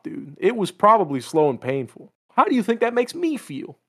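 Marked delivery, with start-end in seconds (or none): 2.3-3.8 mock anguish. Joking to friend about killing his lover, high mock anguish. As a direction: play the wounded lover for laughs.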